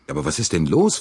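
high, mildly exasperated question; vexed, pitched well up; annoyed. A narrator's reading. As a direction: demand it with rising irritation. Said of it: "fragte Bouc verärgert".

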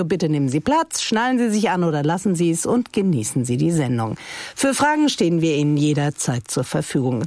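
lightly hammed-up cabin announcement; flight attendant announcement. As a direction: welcome us aboard like cabin crew. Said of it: "Nur professioneller würde das mein heutiger Gast ... sagen".

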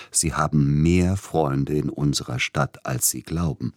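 indulgent coaxing. Acted. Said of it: "nachsichtig zuredend".

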